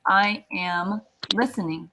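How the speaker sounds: slow, careful quiz prompt; slow teacher prompt; slow prompt phrase. Shown as a demonstration. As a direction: hold out the words for the class. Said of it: "how do I say".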